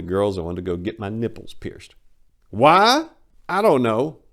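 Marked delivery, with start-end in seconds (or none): 2.5-4.2 mock surprise. Real, not acted. Rhetorical question to the audience.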